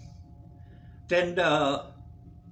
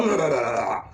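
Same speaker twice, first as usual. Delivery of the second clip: imitated body noise; 2 semitones lower, 4 dB louder than usual. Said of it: "my ass decided to go blah".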